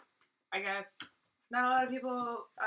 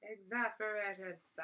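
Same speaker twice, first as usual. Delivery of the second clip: slow, deadpan exasperation; withering sigh; slower than usual. Pretend. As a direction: drag it out, weary and dry. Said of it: "I'm sighing".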